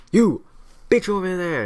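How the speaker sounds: high, loud mock call-out; British sailors. British sailor hailing an American to impress him, high and loud. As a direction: holler it across like a press-gang sailor. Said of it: "British sailors going like".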